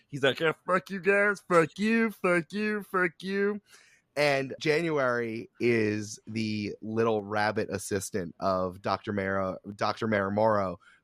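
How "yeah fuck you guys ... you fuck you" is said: full, high-pitched cartoon frog character voice. Describing characters for a game, voicing one who talks in a Kermit the Frog voice. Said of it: "he has a voice like Kermit the Frog".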